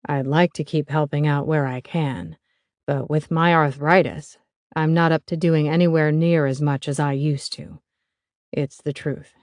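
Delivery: a lightly voiced older father. Stan keeps speaking.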